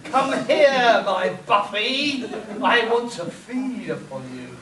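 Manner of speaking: menacing mock vampire; robot vampire. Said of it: "Buffy the Vampire Slayer".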